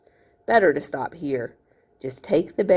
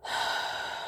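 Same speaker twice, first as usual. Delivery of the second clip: exaggerated sigh; 12 dB quieter than usual. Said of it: "a long, exaggerated sigh".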